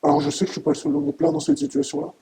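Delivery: emotional outburst, rising in anger; upset and angry. Real, not acted. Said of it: "Vous avez l'air très ému, mais aussi très en colère".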